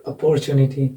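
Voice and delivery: "अपॉर्चुनिटी" as uh-POR-chu-ni-ty; common mispronunciation. Shown as a demonstration. Teacher showing how we commonly say it, "अपॉर्चुनिटी" said uh-POR-chu-ni-ty. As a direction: put the weight on "por" in "अपॉर्चुनिटी". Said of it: "हम बोलते हैं".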